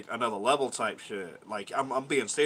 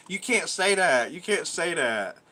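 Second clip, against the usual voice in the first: imitated scolding; 4 semitones higher, slower than usual. Voices others scolding him for swearing.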